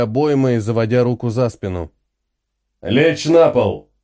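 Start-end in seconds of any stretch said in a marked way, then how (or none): 2.8-3.9 медленно и громко, по слогам; отчекань приказ; команда. Acted. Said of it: "прозвучала команда". (механоид громко командует семье лечь на пол)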